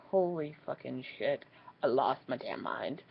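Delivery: whispered confession. Real, not acted. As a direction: breathe it out, embarrassed. Confessing her embarrassment.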